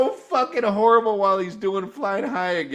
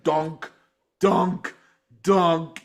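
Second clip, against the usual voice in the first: bass imitation; much slower than usual. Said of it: "the bass is like".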